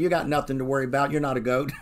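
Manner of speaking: fast, easy, soothing lie; breezy devil brushing off worry, quick; a light touch of a smooth-talking devil; devil's false reassurance. Acted. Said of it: "come to you and tell you".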